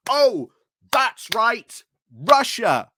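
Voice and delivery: mock-surprised "oh", then a pointed "Russia"; sarcastic fake realization. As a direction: play it like the answer was obvious all along.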